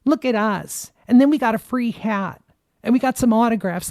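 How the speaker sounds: giddy mocking voice, pitch up; mocking excited visitors. Mocking White House visitors bragging about free hats, giddy. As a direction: show off like a thrilled tourist. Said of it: "being like".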